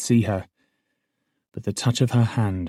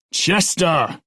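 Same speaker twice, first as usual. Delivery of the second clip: fading call; 9 semitones higher, 5 dB louder than usual. Acted. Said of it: "The guard's voice was fading".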